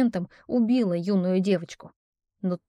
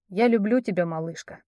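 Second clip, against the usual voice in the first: tender confession. Acted. Prince confesses love, dying.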